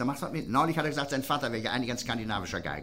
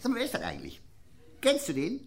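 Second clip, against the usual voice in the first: mock high voice; 10 semitones higher than usual. Telling Lindemann in a story.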